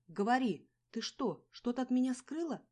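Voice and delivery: loud high demand; angry suspicious cry; demanding shout. A narrator's reading. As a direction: force her to tell. Angry quarrel.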